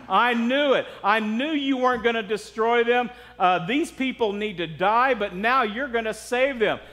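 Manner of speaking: mildly indignant mock prayer; complaining. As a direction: protest to God as if proved right. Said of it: "He's complaining to God".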